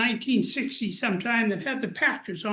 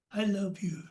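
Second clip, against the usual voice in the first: soft hush; 3 semitones lower, 6 dB quieter than usual. Retold or imitated. Father's words, soft hush.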